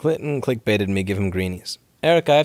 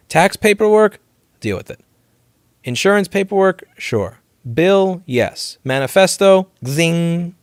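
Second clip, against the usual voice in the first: comic list; 5 semitones higher, 4 dB louder, slower than usual. Real, not acted.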